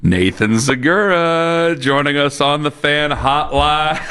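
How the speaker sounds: slow, stretched radio announcer intro; drawn-out guest introduction. Real, not acted. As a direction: draw out each name like a host's big introduction.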